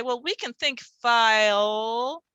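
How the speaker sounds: "file" said slowly and carefully; teacher modelling. Retold or imitated. Teacher coaching a student on "file", slow. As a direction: gently model "file" for the child. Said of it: "you can say".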